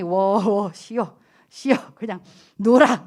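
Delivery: low, slowed soothing; calm her down gently; a hint of calming husband. Husband calming his wife, low and soothing. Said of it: "오 목사님이".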